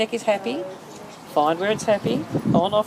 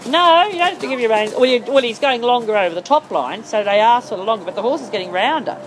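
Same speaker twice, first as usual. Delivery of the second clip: raised voice, firm; louder correction; 3 semitones higher, 5 dB louder than usual. Real, not acted. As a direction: firmly correct the rider, louder. Coach correcting rider's mistake.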